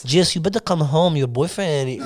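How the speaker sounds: put-on French accent that slips towards Mexican; attempted French accent. French neighbour ringing the girlfriend to come home, shaky French accent. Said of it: "That was a good accent".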